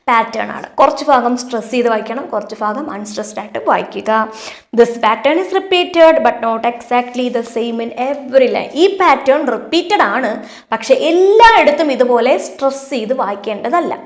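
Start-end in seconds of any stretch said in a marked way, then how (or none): 4.8-8.7 reading the question out very slowly; slow, deliberate classroom read-aloud; slow textbook reading. Acted. Teacher reads textbook sentence.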